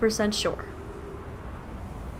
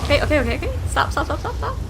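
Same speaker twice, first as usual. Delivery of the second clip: panicked yelling; 7 semitones higher, much faster than usual. Real, not acted. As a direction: panic as the ship drifts. Panicked urging in game.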